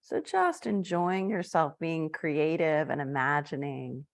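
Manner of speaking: unhurried meditation guide, with long pauses; guided meditation. Acted. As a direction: gently lead listeners inward, phrase by phrase.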